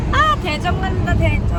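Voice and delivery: loud happy road-trip cheer; excited cheer. Real, not acted. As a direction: cheer it out with glee.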